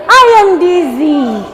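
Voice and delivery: drawn-out teacher reading; slow read-aloud. Shown as a demonstration. Teacher reads the book line to pupils, slow read-aloud. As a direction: read it slowly for children to follow.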